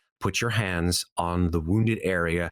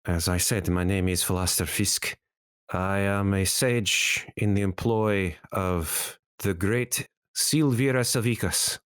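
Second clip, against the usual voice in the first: lightly voiced formal sage; a hint of a courtly scholar, slightly lowered; solemn sage; 2 semitones lower than usual. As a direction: address the party as a learned, solemn sage. GM voices sage introducing himself.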